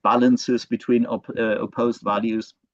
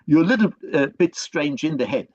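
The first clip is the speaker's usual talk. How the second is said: lightly put-on French accent; not very good French accent, mildly reproachful; attempted French accent; 3 semitones higher than usual. Mother belittling her young son, attempted French accent. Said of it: "kind of French accent. I'm, I'm not very good at that".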